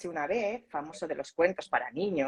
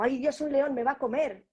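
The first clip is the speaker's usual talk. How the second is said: scared monkey; 7 semitones higher than usual. Pretend. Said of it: "el mono sintió miedo".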